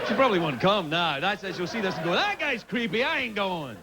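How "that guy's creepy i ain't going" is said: a light, slightly higher mock Daryl Hannah; Daryl Hannah impersonation. Comic imitating Daryl Hannah brushing off his invite, lightly voiced. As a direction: toss it off like an unimpressed starlet. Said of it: "That's my Daryl Hannah impersonation".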